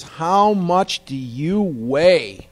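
slow, drawn-out mock outrage; heated dentist. Dentist's first words to patient, slow mock outrage. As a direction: stretch each word in appalled disbelief. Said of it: "very first thing out of his mouth".

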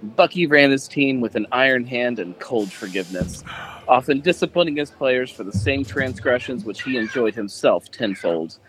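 mock sultry dramatic read; hammed-up seductive narration; sexy reading voice. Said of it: "Remember, sexy".

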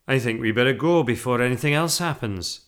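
a touch of hurried firmness; lightly voiced Mr Brown. A narrator's reading. Husband wanting to leave after mishap, firm.

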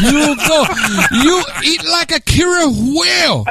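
high, stretched mock Asian accent. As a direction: scold in a caricatured Asian accent. Joins in the mock-accent bit.

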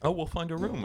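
lightly mock the cheery optimist; optimistic Kevin. Comic imitating his upbeat road-trip partner Kevin, breezy. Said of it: "his usual optimistic self".

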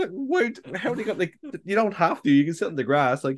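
high, breezy, dismissive retort; dismissive shrug. Retold or imitated. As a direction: brush off his complaint lightly. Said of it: "I was like".

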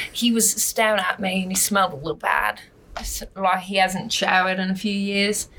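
casual Australian storytelling; conversational Aussie accent, slightly hesitant. Shown as a demonstration. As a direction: tell it in an easy Australian accent. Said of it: "I don't know if I can do it with this".

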